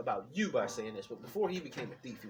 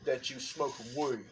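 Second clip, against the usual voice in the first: a hint of distraught dad; imitating dad's voice. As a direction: mimic dad drawing out the accusation. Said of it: "my dad talked just like this".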